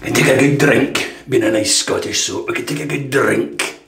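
mild gruff Scottish put-on; lightly growled Scottish brogue; hint of a gruff Scotsman. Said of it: "Why do you always put that gruff voice on".

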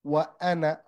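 وأنا ending on a short na; just a short a closing وأنا; fatha only. Shown as a demonstration. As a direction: say وأنا without lengthening the last vowel. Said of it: "Here I just pronounce the fatha".

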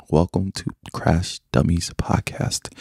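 slow, formal host welcome; slow announcer intro. Shown as a demonstration. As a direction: welcome them like a phone agent. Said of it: "You sound like you work for A T and T".

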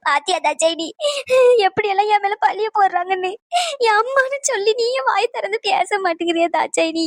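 wronged mother tearfully appealing to her daughter; tearful pleading. Acted. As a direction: plead through sobbing breaths. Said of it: "ஏன் இப்படி அழுதுகிட்டே இருக்க?". (அழுதுகொண்டே கெஞ்சும் குரல்)

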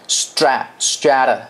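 "strata" slowly with the t flapped like a quick d. Shown as a demonstration. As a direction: tap the t in "strata". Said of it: "这个是闪音".

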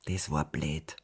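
low, soft character mumble; murmured. A narrator's reading. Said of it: "murmelte er". (leise gemurmelt)

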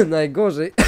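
coughing through the word; real cough, then speaks; chesty cough. Real, not acted. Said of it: "przepraszam, mój kaszel".

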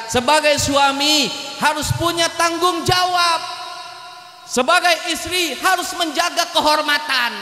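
sustained, declaimed blessing; preached wedding prayer. Real, not acted. Preacher blesses the bride and groom, declaimed prayer.

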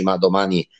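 normal talking voice

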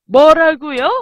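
loud, startled comeback; first burst of play-acted disbelief; acted outrage. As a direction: raise your voice in mock indignation. First of escalating angry takes.

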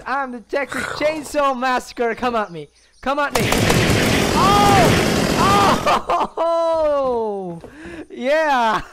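loud whooping and laughing; gleeful battle cry. Real, not acted. Player taking a chainsaw to zombies, exhilarated shouting. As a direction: shout wildly, revelling in the carnage.

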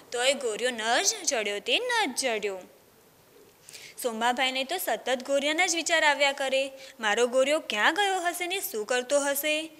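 put-on storytelling voice for children, lively; story narration. A narrator's reading. Teacher reading a village tale to children, storytelling. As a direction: read the tale aloud to a class.

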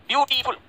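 ब्यूटीफुल in three separated beats; syllable by syllable. Shown as a demonstration. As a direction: break ब्यूटीफुल into ब्यू, टी, फुल. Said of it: "ये तीन बार रुका हमने".

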